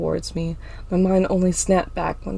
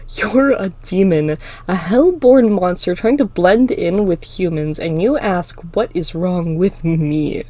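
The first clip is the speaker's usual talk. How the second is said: loud, slow accusation; accusing; 6 dB louder than usual. Acted. Clinton turns the students against Emma, accusing. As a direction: denounce them before a crowd.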